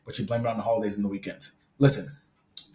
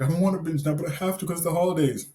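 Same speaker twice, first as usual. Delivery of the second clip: higher whiny voice of a reluctant binger; a mock whine about being forced to binge; 6 semitones higher than usual. Coach mocking viewers' holiday excuses in a higher whiny voice. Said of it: "if you're like".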